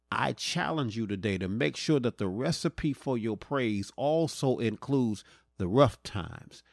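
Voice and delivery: slow, deliberate sermon cadence with weighted pauses; preaching. Real, not acted. Preacher challenging listeners as the message closes, slow preaching. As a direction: draw out each phrase and let it land.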